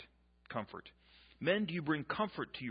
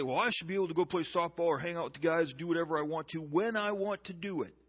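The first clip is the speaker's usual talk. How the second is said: mock husband; 3 semitones higher, 5 dB louder than usual. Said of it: "you'd say".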